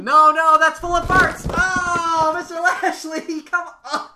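high, loud frantic yelling; host shrieking to save the table; panicked shout. Acted. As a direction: scream to stop him.

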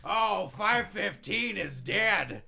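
booming promo voice. Acted. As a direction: bellow like a wrestling boss. Vince promo boasting.

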